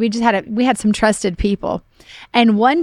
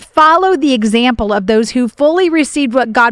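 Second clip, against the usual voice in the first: emphatic, deliberate reading aloud; scripture reading. Real, not acted. Reading Hebrews chapter six to encourage ministers, emphatic scripture reading. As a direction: press each phrase home to the listeners.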